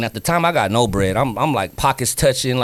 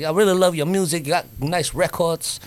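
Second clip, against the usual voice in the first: London voice; 3 semitones higher than usual. Retold or imitated. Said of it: "you got that London voice".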